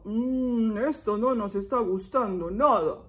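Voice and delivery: mild grumbling annoyance; lightly acted displeasure; annoyed villagers. Villagers fed up with the joke, mildly annoyed. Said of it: "así como enojado".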